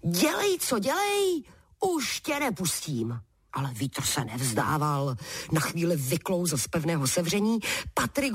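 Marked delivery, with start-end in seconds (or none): 0.1-3.2 triumphant cry. Acted. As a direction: crow over a caught foe. Patrik wrestles the wind giant.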